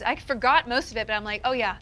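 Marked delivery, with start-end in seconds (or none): 1.4-1.8 laughing through the words; embarrassed, laughing admission; amused confession. Real, not acted. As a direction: say it breaking into giggles. Confessing crush to cast, giggling.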